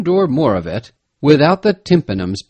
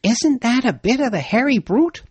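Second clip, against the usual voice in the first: excited Peterkin; 12 semitones higher than usual. A narrator's reading.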